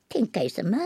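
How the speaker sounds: put-on hushed young monk; whispering. (ささやき声)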